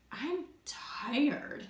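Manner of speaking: sleepy, stretched-out reply; tired. Acted. Teacher acts someone in the blue zone, tired. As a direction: say it as if worn out. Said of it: "Maybe they say".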